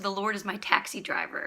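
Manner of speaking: "taxi driver" stressed as the contrasting word. Shown as a demonstration. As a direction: land the emphasis on "taxi driver". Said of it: "our emphasis is on shepherd".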